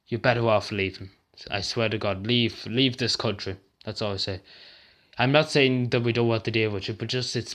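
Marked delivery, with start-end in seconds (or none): 0.1-4.4 quiet, drained and upset; pleading softly, near tears. Real, not acted. Man urging people with mental illness to leave Ireland, quiet and upset. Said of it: "you can really tell by the tone of my voice that I'm really getting upset".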